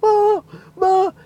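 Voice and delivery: high loud calling; calling mom. Retold or imitated. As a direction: call for her, overjoyed. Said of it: "He's like".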